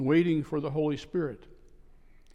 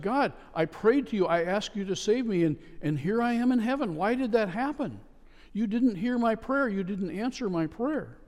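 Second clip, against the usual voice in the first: higher, upset complaint to God; 5 semitones higher than usual. Acted. Man in heaven complains to God, higher and upset. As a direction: demand answers, hurt and indignant. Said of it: "he's pretty upset".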